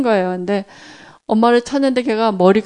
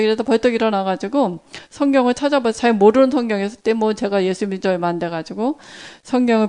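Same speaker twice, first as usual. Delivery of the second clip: usual speaking voice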